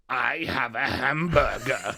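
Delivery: put-on slow German-accented English; deliberate stupid German accent. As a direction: spell it out slowly in a German accent. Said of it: "would it be you saying".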